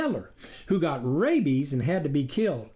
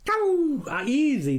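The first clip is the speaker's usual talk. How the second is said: breezy confidence; 12 semitones higher, slower than usual. A narrator's reading. The wolf shrugging off the wife's doubt. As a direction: brush it off. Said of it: "the wolf look-alike said".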